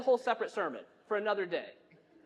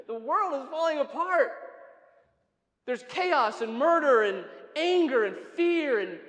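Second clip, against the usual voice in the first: raised-pitch, exasperated outburst; indignant protest; 3 semitones higher, 3 dB louder than usual. Acted. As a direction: pile up the reasons in protest. Acted protest at being asked.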